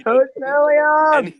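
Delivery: high, drawn-out loud yell; mock holler. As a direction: holler the name long and high, in jest. Hollering the coach's name in jest.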